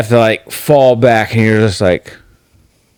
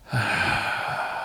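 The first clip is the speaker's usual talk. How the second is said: long, breath-only sigh; acted sigh, all air; 14 dB quieter than usual. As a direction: let out a slow, voiceless sigh. Acts out his reaction.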